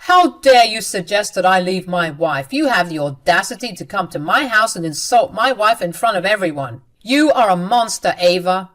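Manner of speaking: loud furious husband confronting his sister; husband yelling at his cruel sister; angry yelling. Acted. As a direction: yell it at her in outrage. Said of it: "Aiden started to yell at Ava".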